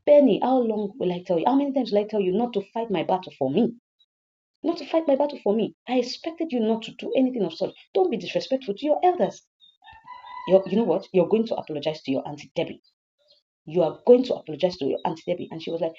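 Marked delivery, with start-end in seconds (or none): 0.1-12.0 raised-pitch, exasperated reprimand; exasperated mother laying down the rule; motherly scolding. Acted. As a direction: scold your daughter firmly.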